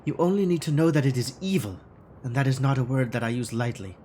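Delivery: lightly put-on German accent for Frau Mueller; a hint of a stiff German accent, formal and guarded; faux German accent. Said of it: "this awful faux German".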